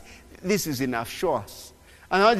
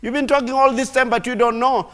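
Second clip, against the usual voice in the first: much higher, loud exasperated protest; Thomas protesting; 10 semitones higher, 6 dB louder than usual. Retold or imitated. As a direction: squeal out the protest. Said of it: "Then Thomas said".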